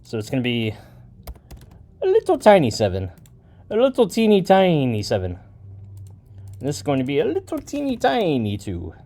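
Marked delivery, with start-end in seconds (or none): 2.0-8.9 lightly voiced cutesy little voice; a hint of a playful cutesy voice for the tiny chords; silly put-on voice. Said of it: "I'm doing accents to my voice".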